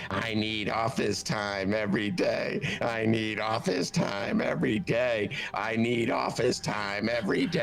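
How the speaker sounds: slow, repeated, lightly voiced Nicholson; a hint of Nicholson reading repetitive emails; Jack Nicholson reading. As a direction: read it like a man losing his mind. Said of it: "as Jack Nicholson".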